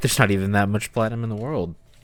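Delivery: put-on loud old woman voice, chuckling through the words. Speaking as a character answering about the platinum, chuckling. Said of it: "chuckle and say".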